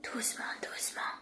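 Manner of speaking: hushed whisper; whisper, creeping closer. Real, not acted. Sneaking up on hiders.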